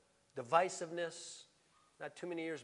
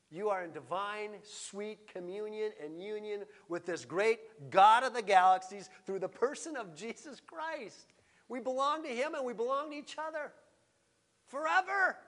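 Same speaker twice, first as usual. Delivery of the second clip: raised, emphatic pulpit voice; forceful preaching; 4 semitones higher, 6 dB louder than usual. Real, not acted. Preacher to congregation on the nations, forceful preaching. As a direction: preach it out, landing hard on key words.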